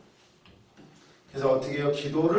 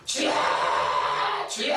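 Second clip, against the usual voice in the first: crying out to the Lord; 10 semitones lower than usual. Shown as a demonstration. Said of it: "계속 주여만 해보세요".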